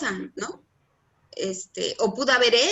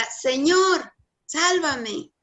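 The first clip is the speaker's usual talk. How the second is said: higher-pitched, half-shouted plea, acted lightly; mild retold cry for help; 5 semitones higher, much slower than usual. Teacher voices Pedro sinking in the sea, mild retold shout. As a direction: call out as if sinking, without full force. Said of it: "cuando se está hundiendo grita".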